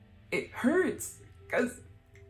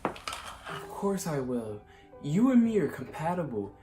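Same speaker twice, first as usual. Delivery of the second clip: tender; 3 semitones lower than usual. Acted. Tender acceptance.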